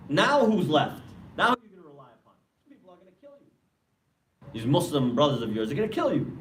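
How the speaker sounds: accusing, climbing high as it builds; acted taunting reproach. Iblis confronting the condemned worshiper with his sins, accusing.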